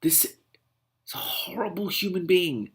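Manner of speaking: slow, breathy disgusted whisper. Real, not acted. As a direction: hush it out in disgust. Whispered verdict after pause.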